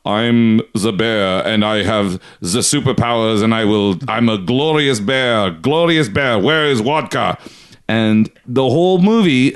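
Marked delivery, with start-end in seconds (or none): 0.1-7.4 mock Russian bear man. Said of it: "one of the main characters is like".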